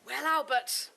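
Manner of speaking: a hint of a tart wife's reproach; mayor's wife chiding her husband, lightly sniping; lightly voiced wife. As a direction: needle her husband, mildly.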